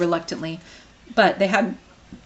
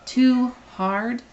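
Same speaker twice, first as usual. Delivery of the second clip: stupefied; 6 semitones higher than usual. Acted.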